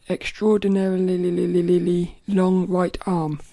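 "Extraordinarily" stretched out slow and loud, syllables tumbling; slowly battle through "Extraordinarily"; slow careful retry. Shown as a demonstration. Vlogger retrying the word she can't say, slow and deliberate. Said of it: "I can't even say it".

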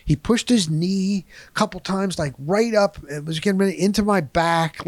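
ordinary delivery

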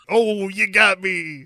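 high mock-sheepish surrender voice; high-voiced comic confession; caught gambler. Caught gambler answers the officer.

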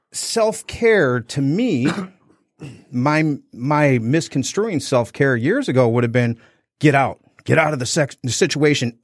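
normal talking voice

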